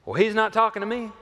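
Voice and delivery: high, loud, quick retort; mock indignation. Relative in a family feud, mock indignation. Acts out family members' quarrel.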